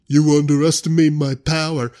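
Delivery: lightly hammed-up threat; a hint of a defiant Anakin. Anakin warning Obi-Wan, in lightly hammed-up defiance. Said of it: "Anakin's like".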